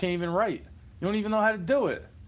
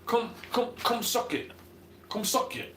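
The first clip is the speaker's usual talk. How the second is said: higher-pitched mocking catchphrase; D-Generation X; 5 semitones higher than usual. Comic quoting a wrestling crew's catchphrase, higher mocking taunt. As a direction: repeat it as a taunting wrestling chant. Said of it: "like D-Generation X".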